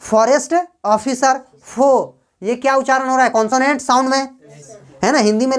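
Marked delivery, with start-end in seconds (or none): 0.0-2.2 फॉरेस्ट ऑफिसर फो slowly, word by word; pronunciation demo. Shown as a demonstration. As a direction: draw out फॉरेस्ट ऑफिसर, then land on फो as "pho". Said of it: "उच्चारण देखो".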